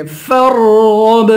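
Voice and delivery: فَارْغَب with full ر and bounced ب; qalqalah on ba. Shown as a demonstration. Teacher showing qalqalah, فَارْغَب with ب bounced. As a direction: thicken رْغَ in فَارْغَب, echo the ب. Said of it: "با پہ قلقلہ کریں گے".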